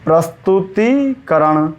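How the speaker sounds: प्रस्तुतिकरण dictated slowly with a long "tee"; long ī before karan. Shown as a demonstration. Teacher dictating a spelling to students, long ī held. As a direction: stretch the ती in प्रस्तुतिकरण. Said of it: "करण लगने के बाद बड़ी की मात्रा".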